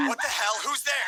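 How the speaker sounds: high, loud panicked call; scared and shouting; frightened shout. Acted. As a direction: call out in alarm into the dark. Scared boy calls into the dark.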